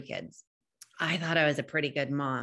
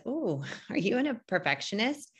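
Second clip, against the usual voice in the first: teasing question; 6 semitones higher than usual. Retold or imitated. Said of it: "if someone says".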